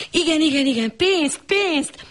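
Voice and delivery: high eager repeated cry; excited cry. Acted. Lady to the fake angel, excitedly crying out. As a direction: cry out yes, money, money. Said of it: "kiáltott fel az úrasszony".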